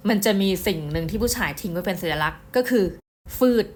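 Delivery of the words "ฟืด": short, sharp mimicked sniff; imitated nose sniff. Storyteller shows listeners the killer's telltale sound, imitated sniff. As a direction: imitate someone sucking air through the nose. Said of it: "เสียงเนี่ยสูดจมูก".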